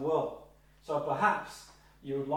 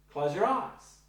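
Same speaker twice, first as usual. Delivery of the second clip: gentle suggestion; 3 semitones higher, slower than usual. Shown as a demonstration. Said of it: "a suggestion".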